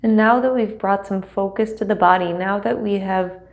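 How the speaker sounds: measured, unhurried meditation guide with long pauses; guided meditation. Acted. Teacher settling students into seat and breath, guided meditation. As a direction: guide them gently into stillness, leaving space between phrases.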